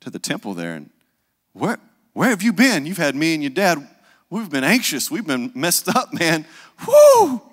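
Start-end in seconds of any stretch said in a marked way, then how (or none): 1.5-6.5 scolding worried mother, raised pitch; fretful mama chewing out her boy; a mother's scolding, pitched up; anxious mother. Retold or imitated. Mary scolding young Jesus. 6.9-7.4 high loud whoop; sharp excited woo. Real, not acted. Preacher's whoop.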